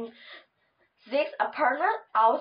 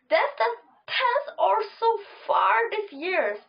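tearful complaint, higher pitch; whiny dismay; 5 semitones higher than usual. Acted. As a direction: whimper it in dismay. Dad upset over lost retainer.

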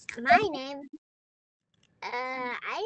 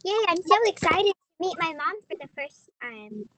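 excited; 5 dB louder than usual. Acted. Child excited to meet mom.

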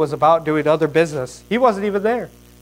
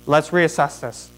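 acted king regaining composure; calming down. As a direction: settle yourself after an outburst. King calms himself after outburst.

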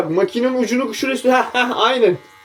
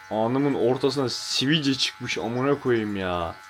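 slow grumble; 7 semitones lower, 10 dB quieter, much slower than usual. Real, not acted. Slow grumble about pimple.

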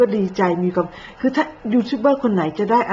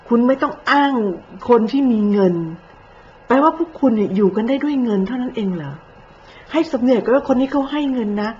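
a raised, indignant rebuke; heated scolding; 4 semitones higher than usual. Real, not acted. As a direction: scold them hard, rising in heat.

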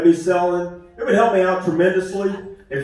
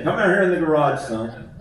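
dad's stock answer. Retold or imitated. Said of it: "That was my dad's answer to everything".

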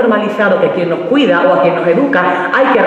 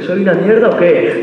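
angry challenge; slower than usual. Acted. Repeated challenge.

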